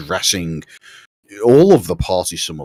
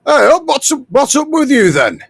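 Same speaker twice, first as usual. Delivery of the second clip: high-pitched, loud hail; calling out; 5 dB louder than usual. Acted. Leader hailing the approaching party, calling out high and loud. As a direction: call out to strangers across a field. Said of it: "calls out in the general direction".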